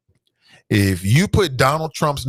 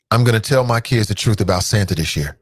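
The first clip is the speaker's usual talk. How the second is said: pledge recital; 3 semitones lower than usual. Shown as a demonstration. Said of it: "say it with me".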